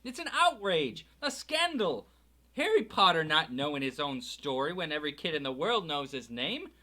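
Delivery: high, loud furious protest; outraged roar. A narrator's reading. Hagrid bellows his outrage at the Dursleys. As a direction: thunder out the outrage.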